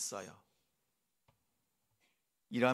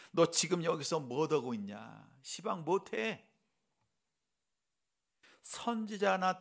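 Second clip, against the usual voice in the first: reproachful tone. Shown as a demonstration. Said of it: "이렇게 타박하는 말씀입니까?".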